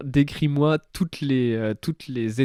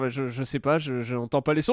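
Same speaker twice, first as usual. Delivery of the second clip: quiet confused reply; 6 dB quieter than usual. Retold or imitated. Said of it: "Et t'es là, genre".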